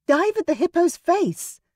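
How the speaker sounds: high urgent call; urgent command. Acted. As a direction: shout the order.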